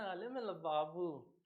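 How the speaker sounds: slow lisping lovey-dovey coo; slow mock baby-talk coo. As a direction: pretend to sweet-talk a lover on the phone. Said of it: "phone पे मम्मा को बोल रहे हैं".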